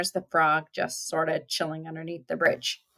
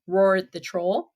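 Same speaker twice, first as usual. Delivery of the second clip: louder; 4 dB louder than usual. Shown as a demonstration. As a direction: read with more force.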